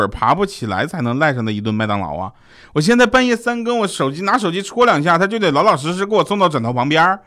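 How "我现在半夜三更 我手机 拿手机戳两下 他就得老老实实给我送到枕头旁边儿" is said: gleeful boast. Acted. Gloating about midnight delivery.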